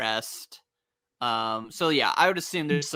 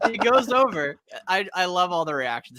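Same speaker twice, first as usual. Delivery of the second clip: ordinary talk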